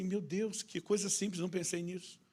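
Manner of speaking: high-pitched, wondering relief; dawning realization. Retold or imitated. Wife suddenly seeing the simple answer, dawning realization. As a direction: voice lifts as it dawns on her. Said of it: "o rosto dela iluminou".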